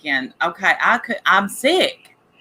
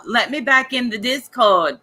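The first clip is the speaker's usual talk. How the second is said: higher-pitched mock Boston accent; attempted Boston accent; 4 semitones higher than usual. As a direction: badly imitate a Boston girl, pitched up. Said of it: "I can't do a Boston accent".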